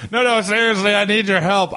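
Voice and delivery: high-pitched acted appeal for help; mock urgent pleading. Acted plea to a sleeping roommate.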